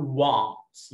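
"wants" with an open American a, like wahnts. Shown as a demonstration. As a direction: open your mouth wide on "wants". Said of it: "لو امريكان بقول".

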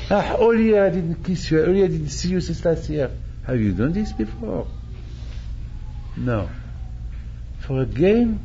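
normal talking voice

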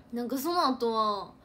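usual speaking voice

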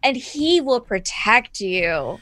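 measured, lilting evangelist reassurance; mock preacher. Snoopy follower to kneeling convert, soothing mock sermon. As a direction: draw out the promise of salvation.

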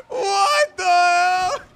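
drawn out in shock; stunned disbelief. Real, not acted. Disbelief after the crash.

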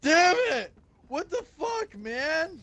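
sudden loud, high curse; frustrated shout. Real, not acted. Gamer cursing his fall, angry shout. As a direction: yell it at the screen. Drops too far in game.

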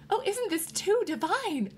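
very high-pitched exclamation; delighted gushing. A narrator's reading. Wife thrilled at overhearing the neighbors' party, delighted. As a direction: gush with delight. Woman exclaims over radio eavesdropping.

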